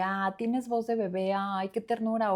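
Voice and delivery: slow, fond teasing, cooing; tender, amused. Retold or imitated. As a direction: say it like something cute. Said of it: "y eso fue como de". (con ternura, despacio y cariñosa)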